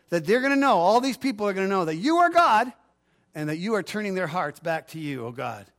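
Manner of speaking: fervent preacher reading the prayer aloud; impassioned prayer reading. Acted. Pastor reading Elijah's prayer to the congregation, fervent. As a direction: lift the prayer up with conviction.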